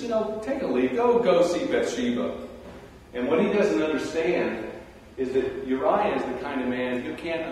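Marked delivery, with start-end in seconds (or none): 0.0-2.3 coaxing king. Retold or imitated. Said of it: "and says".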